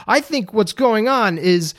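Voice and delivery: mock the Jamaican driver's accent, badly; terrible Jamaican accent. Imitating the Jamaican airport driver, badly faked Jamaican accent. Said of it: "I'm doing a terrible Jamaican accent".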